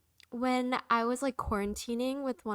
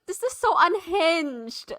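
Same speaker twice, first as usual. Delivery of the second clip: mock shocked reaction; 7 semitones higher, 7 dB louder, slower than usual. Friend's reaction retold.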